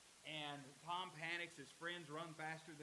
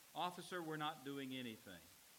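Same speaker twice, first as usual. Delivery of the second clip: normal talking voice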